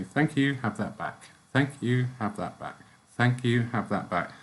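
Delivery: soft, kind "Thank you, have that back"; a gentle demo of returning energy with love. Shown as a demonstration. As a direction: hand it back kindly, no force. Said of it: "React gently to them. Just say".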